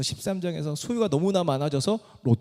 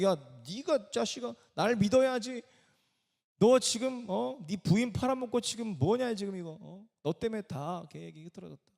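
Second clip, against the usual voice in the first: acted-out telling-off, pitched higher without shouting; mock scolding; 5 semitones higher, 4 dB quieter than usual. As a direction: scold him like an exasperated superior, half in earnest. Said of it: "아브라함을 꾸짖고". (꾸짖는 흉내)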